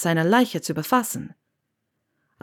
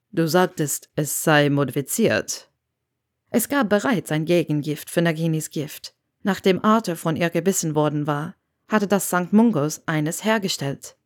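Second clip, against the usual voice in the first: Severus. Acted. Narrator voices Severus.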